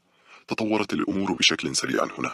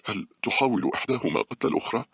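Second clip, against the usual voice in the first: higher, anxious asking; fearful question; 7 semitones higher than usual. Acted. Girl asking the scientist about the worms, fearful. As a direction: ask afraid of the answer. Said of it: "سألته بخوف".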